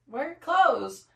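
shocked, loud and slow; surprised. Retold or imitated. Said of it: "and I was like".

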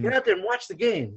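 acting out an irritated command; exasperated retold order. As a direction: re-enact sending the referee back to work. Retold exasperated thought at referee.

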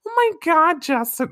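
high, loud Brooklyn exclamation; hammed-up Brooklyn outrage; mock Brooklyn accent, pitched high; mock Brooklyn listener. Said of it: "they're gonna be like".

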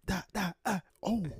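spoken gunfire noises, then an "oh"; imitated gunshots. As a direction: mimic shots popping off with your mouth.

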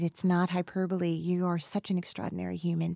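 soft, heartfelt praise; earnest sincerity. Real, not acted. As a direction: say it softly and truly mean it. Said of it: "I mean it".

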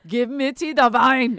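loud, imitating Mitzi's demand; loud imitation of Mitzi; mock Mitzi voice. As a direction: bark it like Mitzi wanting her wine. Voicing Mitzi loudly.

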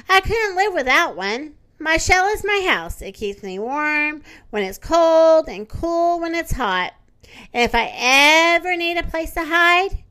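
a cheerful turtle boasting about her shell. Acted. Turtle speaks in a story.

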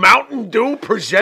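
big, loud sponsor announcement, drawn out; mock announcer. Co-host reading out the match sponsor in mock announcer voice. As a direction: pitch it high and slow like a ring announcer.

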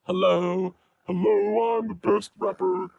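high chipmunk voice effect; squeaky cartoon rapper. Testing voice changer slider.

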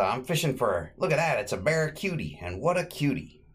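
high, quick, delighted Stooge voice; goofy Curly voice. Retold or imitated. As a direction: gush over the fish like Curly.

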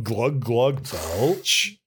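comic spoken gulps and a burp; mock guzzling. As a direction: say the drinking noises as words. Spoken drinking noises as final words.

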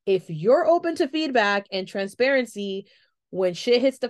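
self-assured, steady delivery; confident. Retold or imitated. Candidate tells interviewer she's tough, confident. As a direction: say it like you've been through it. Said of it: "I said that with confidence".

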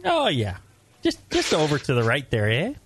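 lightly put-on Upper Midwest accent; hint of imitated northern Midwest accent; mock Fargo accent. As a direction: tease with a Fargo-style Midwestern lilt. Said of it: "people like him on, on Fargo".

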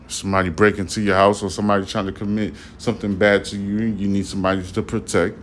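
slightly slurred words; words running loosely together; slurred speech. Real, not acted. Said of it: "I'm sorry if I'm a little bit slurred".

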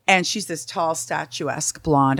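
ordinary talk, nothing marked

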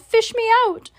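high-pitched desperate call; yelling for help. A narrator's reading. Drowning boy begs to be pulled out, high yell. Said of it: "he yelled".

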